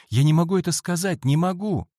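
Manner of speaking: fast, high, loud refusal; scared boy refuses to tell his secret; anxious refusal. A narrator's reading. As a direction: blurt it out in distress.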